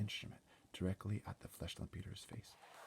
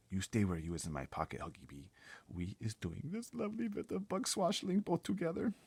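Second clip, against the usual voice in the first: high, loud giant voice with odd grammar; BFG voice; 4 semitones higher, 4 dB louder than usual. Acted. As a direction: play the gentle giant, cheerful and big. BFG voiced in read-aloud story.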